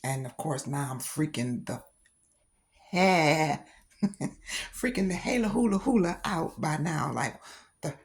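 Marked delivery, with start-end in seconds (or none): 2.9-7.1 laughing. Real, not acted. Laughing while telling the scare.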